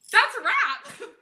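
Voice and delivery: slow, high, laughing. Retold or imitated. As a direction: say it through a laugh. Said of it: "I'm like".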